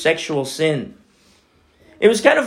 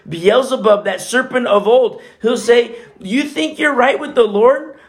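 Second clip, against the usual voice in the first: raised, driving accuser's voice; accusing taunt; 4 semitones higher than usual. Acted. Preacher voicing Satan condemning a sinner, accusing taunt. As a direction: goad and condemn with rising intensity.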